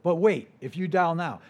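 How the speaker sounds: hammed-up late-night sales line; infomercial announcer. Preacher jokes about infomercials to the church, mock pitchman. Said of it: "Kinda like those infomercials".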